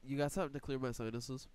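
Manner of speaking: blocked nose, stuffed up; stuffy nose. Real, not acted. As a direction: speak through a stuffed-up nose. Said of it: "your boy is a little stuffed up".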